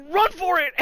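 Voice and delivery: high, loud cry to run; dad yelling. Retold or imitated. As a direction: call out to the kid while running. Dad running behind the kid.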